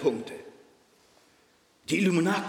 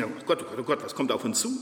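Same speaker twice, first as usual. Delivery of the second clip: gespielte Angst; 6 semitones lower, 3 dB quieter than usual. Pretend. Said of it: "die Offenbarung lesen".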